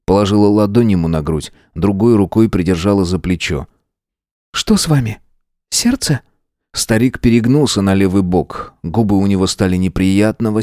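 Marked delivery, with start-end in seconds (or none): 4.5-6.2 higher, alarmed question; worried woman. A narrator's reading. Tanya worriedly asks the old man. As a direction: ask in alarm.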